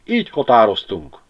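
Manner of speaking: a rat grinding the words, sharper now; sharp creaking rat voice. A narrator's reading. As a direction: squeak it out sharp and grating. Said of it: "Csikorgott most már élesebben a patkány".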